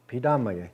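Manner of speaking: Pidamaye, short, the ya syllable dropped; imitating a common error. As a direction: show the clipped Pidamaye as some people say it. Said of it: "This is how some people say it".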